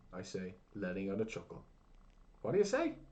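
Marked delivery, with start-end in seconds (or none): 2.4-3.0 put-on loud high complaining old man. A narrator's reading. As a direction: moan it like a deaf grandad. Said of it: "moans Talson".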